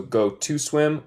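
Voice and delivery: "go to swim" slowed right down; slow model phrase. Shown as a demonstration. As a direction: drag out "go to swim" word by word.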